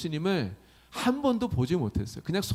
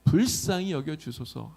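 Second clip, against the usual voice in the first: louder opening, slowing into the plea; loud pleading cry; 2 semitones higher, 4 dB louder than usual. Retold or imitated. Beggar Bartimaeus calls to Jesus for mercy, loud imploring call. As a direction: call out imploringly, drawing out the ending. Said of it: "큰 소리로 부르고 있어요".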